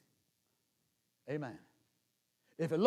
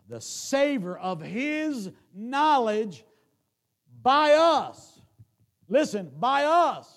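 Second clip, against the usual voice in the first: much higher, much louder, slow and ringing; preaching climax; 11 semitones higher, 15 dB louder, slower than usual. Acted. Preacher crying out to the church, high and loud. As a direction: build to a shouting peak.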